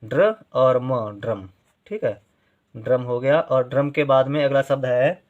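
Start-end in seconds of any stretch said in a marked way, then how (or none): 0.0-1.5 ड्र और म said very slowly; slow dictation; slow spelling out. Shown as a demonstration. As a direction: build ड्रम slowly from its parts. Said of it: "इसे भी इसी तरह लिखेंगे".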